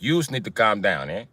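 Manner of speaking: lightly voiced Italian-American accent; understated Italian wiseguy. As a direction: slip into a mock Italian accent. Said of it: "Why you talking all Italian".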